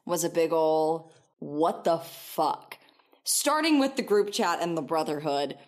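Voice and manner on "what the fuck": slow, stretched "What the fuck?"; drawn-out disbelief. Retold or imitated. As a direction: let each word hang in disbelief. Incredulous recap of the story.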